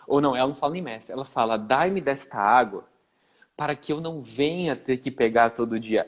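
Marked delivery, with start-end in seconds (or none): 1.6-6.1 slow, pious Bible-reading tone; solemn reverent. Retold or imitated. The romanticized woman asking Jesus, slow and pious. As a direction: intone it like a devout woman, very slowly. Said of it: "Ela, ela não tá falando assim".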